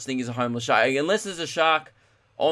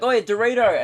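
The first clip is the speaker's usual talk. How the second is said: higher, louder teasing call offering Dorito; luring a shark; 7 semitones higher, 5 dB louder than usual. Pretend. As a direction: wave a snack and call it out to the shark. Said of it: "You're like".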